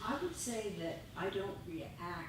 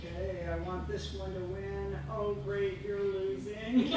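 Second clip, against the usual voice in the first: mock glee; 2 semitones higher, 6 dB louder than usual. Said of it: "you just sit back and say".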